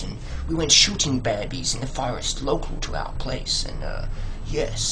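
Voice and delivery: lightly put-on voice of a self-satisfied foodie; mock fussy locavore. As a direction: lightly parody a sophisticated eater. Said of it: "People say".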